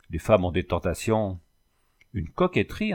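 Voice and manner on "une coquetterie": indignant echo. Acted. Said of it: "interrompit le mercier".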